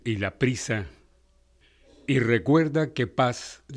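calm, earnest reading of Desiderata; poem recitation. Acted. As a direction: recite it like wise counsel.

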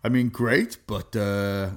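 lightly put-on French accent; hint of French, hesitant and puzzled; accidental French accent. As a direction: imitate a manager with a stray French accent. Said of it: "I don't know why he's French".

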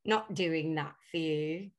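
lightly acted indignant alter ego; Pearl. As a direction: switch into a playful put-on character, objecting. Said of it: "I'll switch into somebody else".

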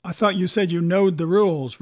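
mildly scornful pirate retort; a touch of contempt, pushed out firmly; contemptuous. A narrator's reading.

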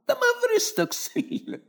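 put-on high, slow, drawn-out old woman's wail; hammed-up granny lament; mock shrill granny. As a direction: stretch it out like a scandalised grandmother.

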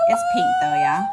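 very high, loud squeal. Pretend. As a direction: squeal it like a giddy girl. Squealing answer.

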